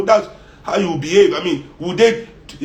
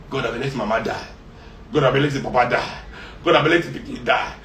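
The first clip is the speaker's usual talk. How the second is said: mock lament; 5 semitones lower, 4 dB quieter than usual. Mock lament to rich people.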